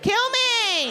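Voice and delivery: high squealed "Kill me"; mock slutty squeal.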